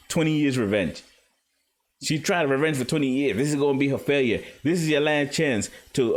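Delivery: high, gleeful mocking villain voice; gloating villain. Orochi taunting Kanjuro about his last performance, high gloating villain voice. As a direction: crow over his failure with a laugh.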